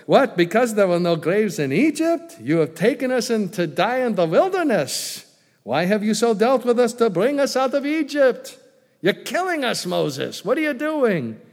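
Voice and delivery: high, loud, exaggerated Jewish accent; mimicked Jewish accent. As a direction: complain to Moses in a hammed-up Jewish accent. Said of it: "Jewish accent, ... I can go ahead and mimic the accent".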